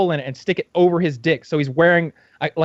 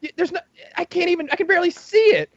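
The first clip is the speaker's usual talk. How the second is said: much higher, incredulous teasing voices; mock disgusted hosts; 11 semitones higher than usual. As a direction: tease him in mock disbelief. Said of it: "they're like".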